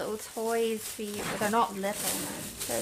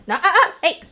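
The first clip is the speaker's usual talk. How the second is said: firm loud command; 4 semitones higher, 15 dB louder, faster than usual. Real, not acted. Commanding the dog sharply.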